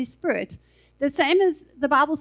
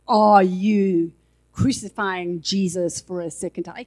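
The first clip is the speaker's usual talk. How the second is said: louder, harsh accusing demand; 6 semitones lower, 4 dB louder than usual. Shown as a demonstration. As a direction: hammer the question like an accuser. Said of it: "He won't say it like that".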